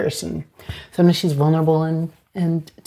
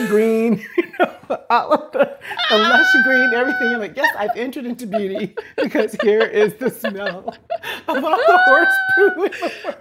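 high laughing shout through the words; laughing hard; 5 semitones higher than usual. Real, not acted. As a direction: crack up while describing the horse smell. Laughing about fertilizer smell.

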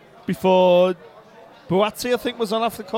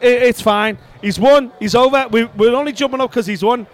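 raised-voice pleading of his case; retold yelling; 2 semitones higher, 4 dB louder than usual. Retelling his reply to the angry spectator, raised voice. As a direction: loudly retell talking someone down. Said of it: "why are you yelling down the microphone".

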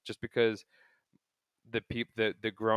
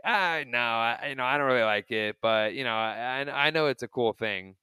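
David Wright impression; 3 semitones higher, 6 dB louder than usual. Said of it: "in his hokey David Wright way".

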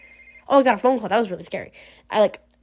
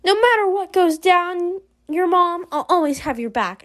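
acted reassurance; 7 semitones higher than usual. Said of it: "oh, she says".

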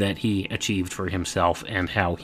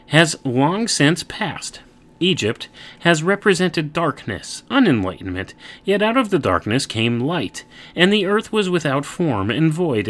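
booming biblical narration; 4 semitones higher than usual. Acted. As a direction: proclaim it like a preacher. Reads Genesis aloud.

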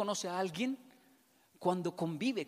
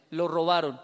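louder, certain verdict; knowing wife; 3 semitones lower, 9 dB louder than usual. Retold or imitated. Wife telling her husband he was robbed, louder and certain. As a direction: state it like you already know. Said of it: "y me dice".

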